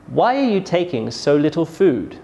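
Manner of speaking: "Why" strong, "food" falling; falling question intonation. Shown as a demonstration. Teacher demonstrates a W H question, falling tone on "food". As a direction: start firmly on "Why", drop on "food". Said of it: "my voice falls".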